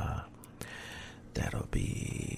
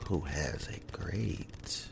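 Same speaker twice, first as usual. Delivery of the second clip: calm and soothing, almost whispered; Bob Ross voice. Real, not acted. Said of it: "my subs call it the Bob Ross voice".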